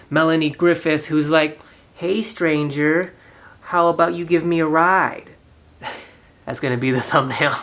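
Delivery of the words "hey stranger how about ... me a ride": sultry stranger. Retold or imitated. Melanie Griffith's hitchhiker picks him up.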